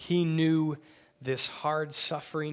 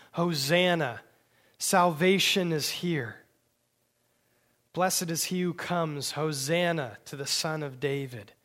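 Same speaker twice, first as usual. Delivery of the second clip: joyful shouting; 2 semitones higher, 5 dB louder than usual. Retold or imitated. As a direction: call it out like a cheering crowd. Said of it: "the people there were shouting".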